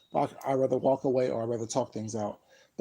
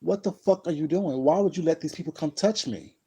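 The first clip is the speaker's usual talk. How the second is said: retold heated cussing, a bit raised; angry cussing; 4 semitones higher, 3 dB louder than usual. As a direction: throw the question at her, indignant. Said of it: "I literally cussed at my mom".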